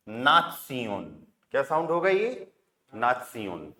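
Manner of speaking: नाथ सियोन with a long aa and a syllable-by-syllable si-yon; teacher saying नाथ सियोन; German pronunciation. Shown as a demonstration. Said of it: "ये क्या हो जाएगा".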